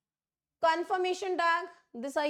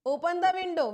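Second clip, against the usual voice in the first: "Open the window" given as an order, a bit louder; firm command; 3 semitones higher, 4 dB louder, much slower than usual. Shown as a demonstration. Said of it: "इसमें हम command दे रहे हैं". (आदेश देते हुए "Open the window")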